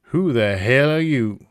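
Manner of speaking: slow, suspicious southern professor; southern accent. Acted. Professor challenging a stranger, southern accent. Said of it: "I don't know why it's a southern accent".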